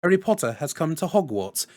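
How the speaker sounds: lightly mimicked haughty schoolboy; a hint of a British film-villain boy; measured, lightly put-on English accent; Draco Malfoy. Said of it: "I mimicked Draco Malfoy".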